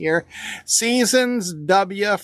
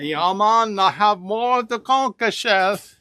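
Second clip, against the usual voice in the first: a light put-on Bahamian accent; Bahama accent. Fabric seller joking with co-host in mock Bahamian accent. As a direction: slip into a mild, playful Bahamian lilt. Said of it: "That's my Bahama accent there".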